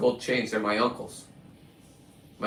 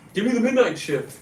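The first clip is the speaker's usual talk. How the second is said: mock tough cop; 8 semitones higher than usual. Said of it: "mimicking cops".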